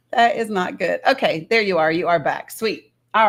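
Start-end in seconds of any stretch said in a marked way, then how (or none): none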